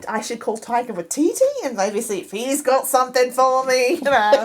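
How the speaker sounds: light mock-Aussie accent; put-on Australian accent. Musing about calling a film director, mock Australian accent. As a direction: keep up the fake Australian accent. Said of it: "I'm talking like this now".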